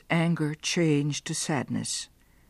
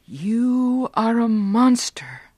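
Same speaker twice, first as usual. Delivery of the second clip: slow, louder accusing shout; 4 semitones higher, 5 dB louder, slower than usual. Acted. Giovanni accusing Beatrice in the garden, shouting. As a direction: fling the word monster at her. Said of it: "Giovanni shouted".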